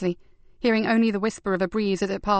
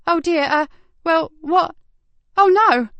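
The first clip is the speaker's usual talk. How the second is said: rising higher and louder into a cry; stunned cry; 9 semitones higher, 6 dB louder, slower than usual. A narrator's reading. Receptionist realising something is wrong, rising into a stunned cry. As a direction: alarm building to a shocked Oh no. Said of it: "The last stunned cry".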